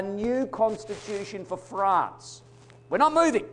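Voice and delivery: loud, resolute proclamation that swells to a shout on the last line; defiant declaration. Retold or imitated. Commoners defying the king, loud and unyielding. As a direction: stand your ground and refuse to budge. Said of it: "they said".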